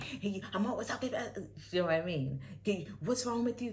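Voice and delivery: high-pitched, hurried nagging; acted-out fussing, quick and high; mock nagging complaint. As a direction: imitate an exasperated partner, pitched high. Acted critical complaint to partner.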